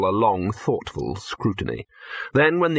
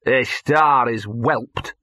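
slow, drawn-out scorn; small withering voice; much slower than usual. Acted. Gaspode behind Victor, slow withering remark. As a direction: stretch the words witheringly. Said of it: "said a small, withering voice".

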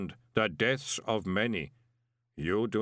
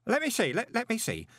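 put-on high, absorbed boy's voice; examine it while murmuring thoughtfully; level, thoughtful boy; 13 semitones higher than usual. A narrator's reading. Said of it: "in a level, thoughtful voice".

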